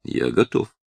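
calm. A narrator's reading. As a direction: answer steadily, unruffled. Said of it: "спокойно ответил Клод". (спокойно и тише)

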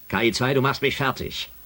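exasperated. Acted. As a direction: driven up the wall by the computer. Genervt über die Maschine. (genervt zur KI, deutlich höher)

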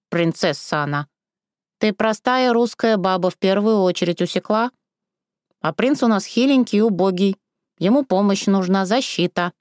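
put-on a sharp old crone's telling-off; scolding old woman. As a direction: put the girl in her place.

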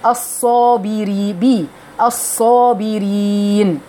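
"بي" slowly, then "الصابرين"; slow kasra on "الصابرين"; kasra demo. Shown as a demonstration. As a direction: draw out "بي" in "الصابرين". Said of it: "اكسري بقى كويس".

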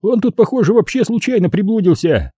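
high, scornful voice; mocking younger killer. A narrator's reading. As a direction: laugh at the stray victim. (насмешливо, высоким голосом)

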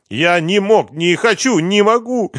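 high tearful wail; bursting into tears. A narrator's reading. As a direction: plead as you start to cry, voice climbing. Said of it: "заплакал Лихоносов".

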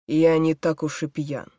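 put-on slurred drunk speech; заплетающимся языком. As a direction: slur the words like a drunk man. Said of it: "говорит он заплетающимся языком". (пьяно, заплетающимся языком)

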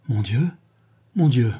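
anguished cry of God's name; cried out. A narrator's reading. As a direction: cry it out in horror. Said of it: "cria-t-il".

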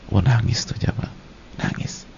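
hushed aside. Acted. Hushed aside about her weeping.

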